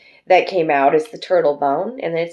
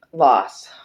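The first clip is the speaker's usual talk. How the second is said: a breathy whisper on one word; whispered punchline; whispered loss; 4 semitones lower than usual. Real, not acted. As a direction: drop to a hushed whisper for effect. Whispered ominous word in reading.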